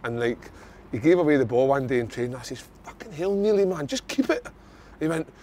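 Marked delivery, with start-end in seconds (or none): 2.8-4.5 retold exasperated plea. Player to a teammate who lost the ball, exasperated. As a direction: pitch climbing in mild exasperation. Retelling a training argument.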